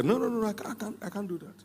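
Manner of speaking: mock refusal. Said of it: "you are likely to say".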